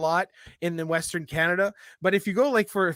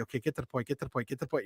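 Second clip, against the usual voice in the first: impatient muttering; 5 semitones lower, 11 dB quieter, much faster than usual. Retold or imitated. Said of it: "would be high anxiety".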